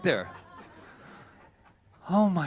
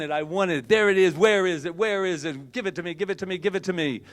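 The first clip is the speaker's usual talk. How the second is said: raised, rapid-fire grabby begging; eager demanding; 4 semitones higher than usual. Acted. Speaker mimics wanting it all right now, eager demanding. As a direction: pester for it in insistent repeats.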